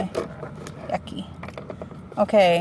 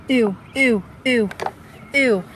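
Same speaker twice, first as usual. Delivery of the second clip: disgusted ew; 3 semitones higher than usual. Real, not acted. Grossed out by the bug in her car. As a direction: recoil in real disgust.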